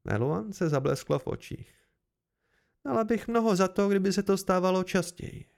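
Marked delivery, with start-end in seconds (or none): 2.8-5.4 lightly voiced noblewoman, higher pitch; a touch of cold resentment, raised pitch; rozhořčená šlechtična. Figure of Meluan, angry wife. (lehce zahraná rozhořčená šlechtična, vyšším hlasem)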